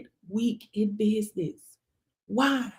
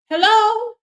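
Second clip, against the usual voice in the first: loud, much higher "Hello?"; exasperated hello; 10 semitones higher, 6 dB louder than usual. Real, not acted. Calling out viewers in disbelief, loud and high. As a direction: call out in disbelief.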